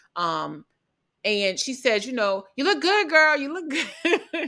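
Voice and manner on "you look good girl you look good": put-on very high, loud, projected holler. Retelling someone calling a compliment across the room: imitating someone yelling. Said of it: "she yells it across the room".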